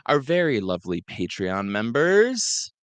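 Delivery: loud name list rattled off in one long breath; holding breath. Real, not acted. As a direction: race through every name without breathing. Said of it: "Can I hold my breath this long?".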